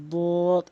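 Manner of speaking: বদ as a heavy, drawn-out Arabic dad; Arabic dad demo. Shown as a demonstration. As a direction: press the tongue edge to the molars on বদ. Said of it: "এভাবে উচ্চারণ করবেন". (বদ ভারী করে টেনে উচ্চারণ)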